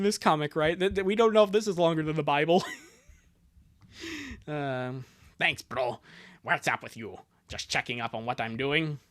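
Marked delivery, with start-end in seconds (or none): 5.4-9.0 low, casual sibling voice; lightly voiced sister. Sister asking brother what's up, low and casual. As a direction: lightly play a sister, pitched down.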